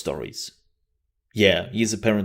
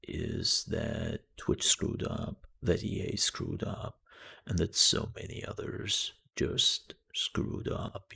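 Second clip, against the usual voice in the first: softer, low whispered imitation of Corpse; a hint of his deep persuasive whisper; lightly voiced Corpse; 5 dB quieter than usual. Shown as a demonstration. Streamer imitating a friend's famous voice, softer low whisper. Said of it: "going a little bit lower".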